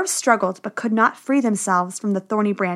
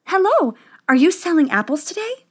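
higher, lilting princess voice; high-pitched polite question; Snow White; 7 semitones higher than usual. A narrator's reading. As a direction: ask it as a sweet princess, pitched up. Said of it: "Snow White asked".

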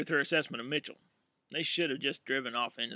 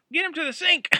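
urgent shout; 9 dB louder than usual. Acted. Urgent order during chaos.

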